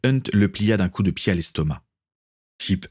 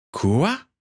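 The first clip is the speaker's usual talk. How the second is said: choking in shock; 8 semitones higher than usual. A narrator's reading. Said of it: "s'étrangla Dennis".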